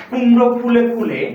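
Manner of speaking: measured recital of a verse line; poem recitation. Shown as a demonstration. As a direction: model the line for pupils to repeat. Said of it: "যে কোনো তিনবার বলবো".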